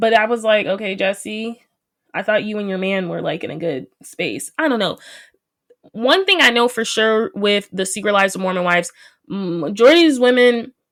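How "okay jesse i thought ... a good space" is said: ordinary delivery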